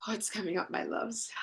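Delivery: whispered, breath only, no voice; soft whisper. Real, not acted. Host whispering an endearment to her chat, breathy whisper. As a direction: breathe it to the viewers like a secret.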